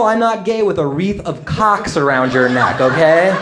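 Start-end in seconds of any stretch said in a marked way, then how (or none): 0.0-0.6 mock yell. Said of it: "You cannot yell".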